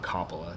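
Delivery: Coppola starting like "cop", "KOP-uh-luh"; short "cop" sound opening Coppola, stressed; disliked pronunciation. Shown as a demonstration. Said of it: "that's the one thing I don't like".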